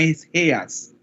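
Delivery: Heas said the German way, like "heas"; German pronunciation. Shown as a demonstration. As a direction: Heas with a soft breathy h. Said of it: "en el alemán ... es Heas".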